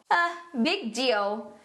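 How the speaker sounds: slow, dismissive English reply; sarcastic. Acted. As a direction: act unimpressed, drawing out the words. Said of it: "responde com tons de sarcasmo". (resposta sarcástica e arrastada)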